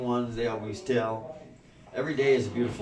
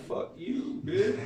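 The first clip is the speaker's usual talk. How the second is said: cheeky retort; 8 semitones higher, much slower than usual. Retold or imitated. Answering the horse that said go upstairs, cheeky high voice. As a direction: toss it back lightly in a high voice.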